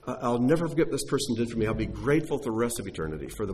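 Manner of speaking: grateful rescued person. Retold or imitated. Preacher voicing a rescued man praising his rescuer, heartfelt. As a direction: gush gratefully about the stranger who saved you. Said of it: "because you can say".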